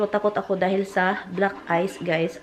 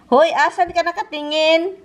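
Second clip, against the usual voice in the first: laughing scold; 7 semitones higher, 7 dB louder than usual. Real, not acted.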